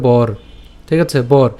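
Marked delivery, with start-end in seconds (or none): 0.1-0.3 "বর" with the r closed onto bo; pronunciation demo. Shown as a demonstration. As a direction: say "বর" as one syllable, bor. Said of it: "তাই উচ্চারণটা কেমন হবে?". ("বর" র-সহ এক দলে উচ্চারণ)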